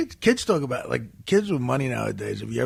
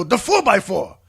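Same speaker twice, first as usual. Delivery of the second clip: Sicilian foreman; 4 semitones higher, 5 dB louder, slower than usual. Acted. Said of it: "this one Sicilian guy".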